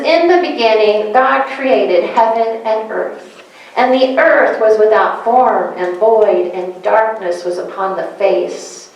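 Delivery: slow solemn Bible reading; scripture reading. Acted. Pastor reading Genesis to the congregation, solemn and slow. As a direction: read it like holy scripture.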